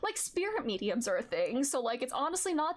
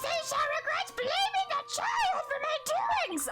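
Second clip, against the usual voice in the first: booming demon lord. Acted. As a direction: belt it out like a possessed demon lord. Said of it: "that's gonna shred my vocal cords".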